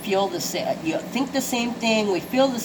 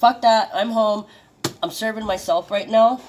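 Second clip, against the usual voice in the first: defiant; 2 semitones higher, 4 dB louder than usual. Pretend. Defiant voiced stance.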